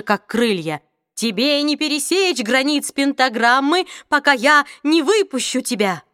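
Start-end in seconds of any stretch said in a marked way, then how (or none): 1.1-6.0 trembling threat. Acted. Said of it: "голос у него дрожал".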